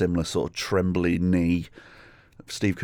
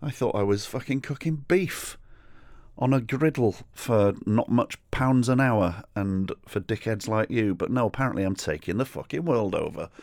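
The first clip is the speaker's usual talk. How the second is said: put-on higher, slowed, baffled kid's voice; mock-baffled kebab shop kid answering the drunk; imitating the baffled kid; 4 semitones higher than usual. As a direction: play the puzzled young cook, pitched up. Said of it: "this poor kid is like".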